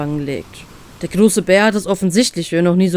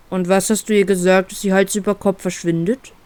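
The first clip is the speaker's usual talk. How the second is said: doubting, probing question; sceptical. Acted. Bear questions the captain on why she fled, sceptical. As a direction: press on with mild scepticism. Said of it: "fragt der Bär skeptisch weiter".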